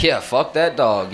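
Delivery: slow, subdued mock agreement; nervous agreement. Nervous driver agreeing with the scary dog owner, subdued uneasy echo. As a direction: go along meekly, without the force of the angry owner. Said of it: "I'm nervous as fuck".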